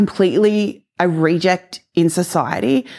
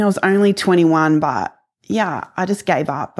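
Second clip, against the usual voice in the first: normal talking voice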